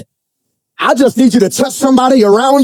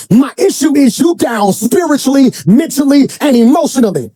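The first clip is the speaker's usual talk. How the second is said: impassioned preaching; 4 semitones higher than usual. Real, not acted. Preaches at full force.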